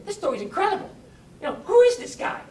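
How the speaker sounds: high, loud and astonished; amazed friend. Retold or imitated. Friend leaning in, amazed by the woman's story. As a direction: gasp it out in disbelief.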